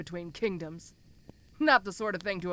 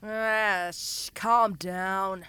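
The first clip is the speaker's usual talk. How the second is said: soothing hush; much slower than usual. Acted. Soothing struggling captive.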